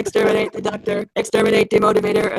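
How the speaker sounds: deep grinding Dalek chant. Pretend. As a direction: intone it like a Dalek. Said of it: "It's so good".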